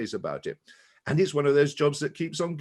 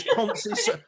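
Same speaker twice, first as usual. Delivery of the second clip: poncy Southerner; 6 dB louder than usual. Retold or imitated. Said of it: "Poncy Southerner".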